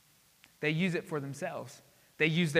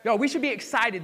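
rousing the room; 5 semitones higher, 6 dB louder than usual. Real, not acted. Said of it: "I gotta do something".

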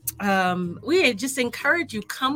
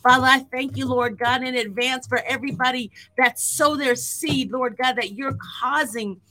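fervent prayer; 3 semitones higher than usual. Acted. Prayer building to fervour.

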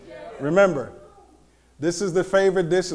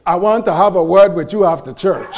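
put-on Jamaican accent; 4 semitones lower, 3 dB louder than usual. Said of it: "You wanna hear my Jamaican?".

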